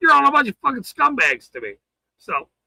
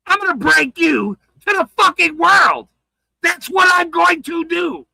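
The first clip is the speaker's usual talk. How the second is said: angry shout; 5 semitones higher than usual. Real, not acted. Threatening accusers.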